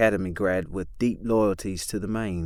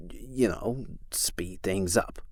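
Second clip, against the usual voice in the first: sly insinuation; 8 dB quieter, slower than usual. Acted. Chris insinuating murder.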